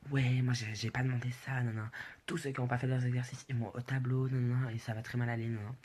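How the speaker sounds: mildly worked-up imitation of a teacher; a touch of retold anger; mock angry teacher. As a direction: rattle off a teacher's scolding, lightly annoyed. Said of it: "il commence à grave s'énerver".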